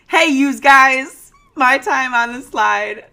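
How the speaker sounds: slow, loud tough-guy gangster voice; 1930s beat cop. Retold or imitated. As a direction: drawl it like an old-time Brooklyn cop. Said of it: "That voice, nailed it".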